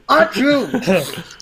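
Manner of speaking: sneeze. Acted. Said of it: "I may sneeze about it".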